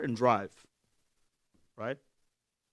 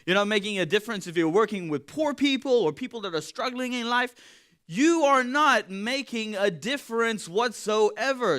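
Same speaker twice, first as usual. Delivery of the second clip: voice of doubt; 4 semitones higher than usual. Acted. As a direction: taunt them like doubt itself. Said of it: "This is what doubt says to us".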